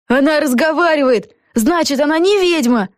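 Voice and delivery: high-pitched accusation from the crowd; crying out. A narrator's reading. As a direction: call out the verdict in a high voice. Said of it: "закричали в толпе".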